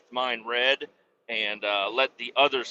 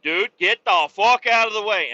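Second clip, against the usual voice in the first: annoyed outburst; 7 semitones higher, 5 dB louder than usual. Retold or imitated. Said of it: "it's like".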